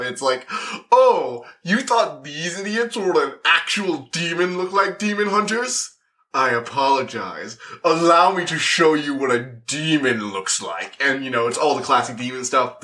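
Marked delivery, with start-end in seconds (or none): 0.9-10.9 mock menacing lord showing off his power; Stolas taunting. Stolas sneering at demon hunters, hammed-up menace. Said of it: "when Stolas shows up".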